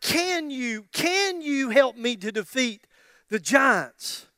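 CAN stretched out slowly each time; slow, doubting appeal with weight on "can"; doubting plea. Acted. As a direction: plead slowly, leaning on "can". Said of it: "you're just asking the question".

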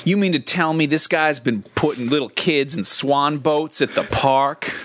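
lightly voiced rapper cadence; a hint of a rapper's cadence; rapper impression. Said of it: "the rapper was definitely one of them".

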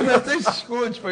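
mock furious, squeaky rant; nervous angry coach. Player mimicking the flustered coach rebuking Ronaldo, high mock anger. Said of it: "E o outro nervoso".

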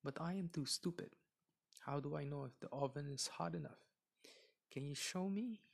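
high, pleading fake helplessness; feigned helpless crying. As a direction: play dumb, whiny and high. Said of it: "She started to cry".

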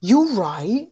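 repeating it like a stuck soundboard; broken record. Shown as a demonstration. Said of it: "Why are you saying it over and over again".

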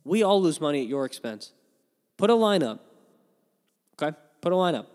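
loud, high outburst at the bookmakers; mock rant at Vegas. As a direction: yell it at Vegas like a fed-up bettor. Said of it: "And it's like".

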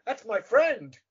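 high, punched lilting phrase; imitated sing-song. Actor mimics co-star's line, high sing-song. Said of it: "hearing his tune in your head".

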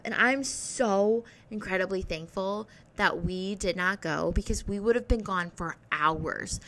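normal talking voice

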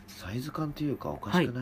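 high, pushy complaining customer; whiny, entitled shop customer; demanding customer. Acted. Improv angry customer role.

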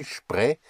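"spre" as a lone shpre syllable. Shown as a demonstration. Teacher repeats the first syllable, "spre" with shp. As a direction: begin "spre" with sh. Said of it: "is like an S H P".

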